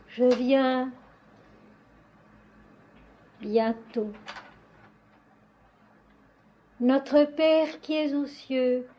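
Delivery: measured, solemn recitation; liturgical prayer. Acted. Worshipper addressing Notre Père qui es aux cieux, solemn prayer. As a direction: pray in even phrases with long pauses.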